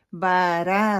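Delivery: را said light and thin, not rounded. Shown as a demonstration. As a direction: mimic the light "ra" mistake in را. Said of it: "را کو موٹا نہیں پڑھتے".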